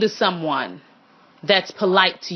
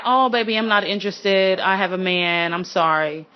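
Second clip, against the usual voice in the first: gentle let-down; 2 semitones lower than usual. Shown as a demonstration. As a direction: turn them down kindly and calmly. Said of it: "you can say it in that tone".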